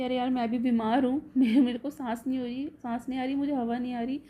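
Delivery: mock yelling. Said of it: "ये भी चिल्लाता है".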